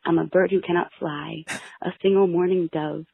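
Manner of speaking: mock-dramatic poem reading; poem recitation. Reads her sad poem aloud.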